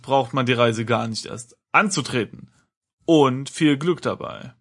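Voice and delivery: steady storyteller reading with voiced characters; story narration. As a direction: read the adventure like an audiobook. Reads adventure text aloud. (Vorleseton einer Erzählung)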